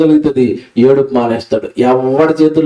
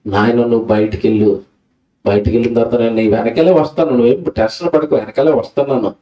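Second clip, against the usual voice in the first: lower, gentle fatherly promise; God's promise; 8 semitones lower than usual. Acted. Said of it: "ఏంటో తెలుసా ఒప్పందం?". (దేవుడు బిడ్డకు ఇచ్చే ఓదార్పు మాట, తక్కువ స్వరంతో)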